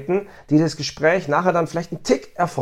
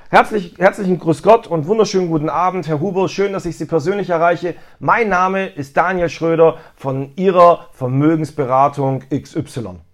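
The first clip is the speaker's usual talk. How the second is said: friendly phone greeting. Shown as a demonstration. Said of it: "positive Akzente setzen, gute Stimmung aufbauen".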